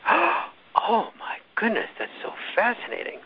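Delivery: high-pitched, drawn-out gushing awe; mock fascination. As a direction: imitate a breathlessly fascinated interviewer. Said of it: "Another time she'll go".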